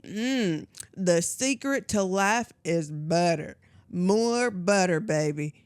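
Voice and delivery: put-on Southern accent. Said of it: "Is that supposed to be a country accent?".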